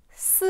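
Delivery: "Si" falling from high. Shown as a demonstration. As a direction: let "Si" drop like a firm command. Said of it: "Qui descend aussi".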